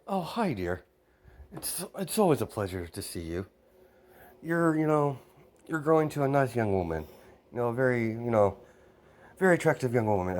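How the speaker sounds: a hint of a mother's delighted greeting; gushing mother. Mother greets her son's girlfriend with compliments, lightly gushing.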